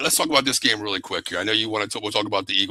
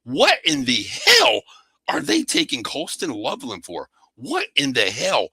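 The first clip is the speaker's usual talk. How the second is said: slow, high incredulous what in the hell; retold disbelief; 3 semitones higher than usual. Host recalling draft night pick, slow and disbelieving. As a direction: drag out the disbelief, pitched way up. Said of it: "We said".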